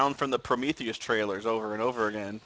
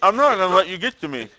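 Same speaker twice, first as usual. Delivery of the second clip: loud defiance; 7 semitones higher, 8 dB louder than usual. Acted. Mock defiance at chat.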